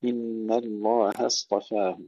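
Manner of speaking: slow recital, thin هـ in الله before heavy ص; light هـ, heavy ص in الله اصطفاه; light haa. Shown as a demonstration. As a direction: recite إن الله اصطفاه slowly without thickening the هـ. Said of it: "نركز على ترقيق الهاء".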